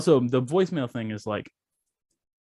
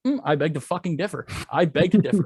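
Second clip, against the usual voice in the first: retold defiant comeback; indignant objection; 5 semitones higher than usual. Acting defiant reply to phone message.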